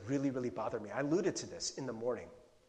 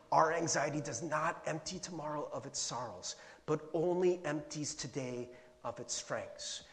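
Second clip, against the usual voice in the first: deliberate repeat; 3 dB quieter than usual. Real, not acted. Preacher repeats a quote for the congregation, deliberate and softer.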